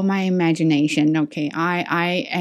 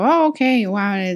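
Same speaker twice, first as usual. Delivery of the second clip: pleased realization; 3 semitones higher than usual. Retold or imitated. Teacher retelling her relief at understanding the email, pleasantly surprised. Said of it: "I felt super good".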